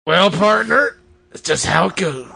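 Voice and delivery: drawled cowboy shrug. Acted. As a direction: say it like a laid-back cowboy. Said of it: "do it in a cowboy voice".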